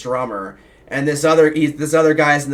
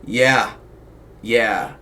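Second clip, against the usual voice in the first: put-on drunk repeated yeahs; 4 semitones lower, much slower than usual. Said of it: "like, five times".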